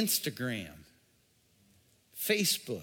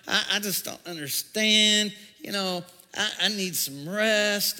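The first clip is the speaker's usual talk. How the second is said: griping. Retold or imitated. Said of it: "griping, complaining".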